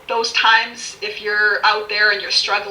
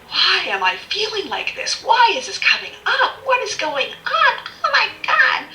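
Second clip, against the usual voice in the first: higher, rising mock panic with a laugh; 10 semitones higher than usual. Struggling person wondering what's happening, rising mock panic. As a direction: build into half-laughing panic. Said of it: "you're just sitting there going".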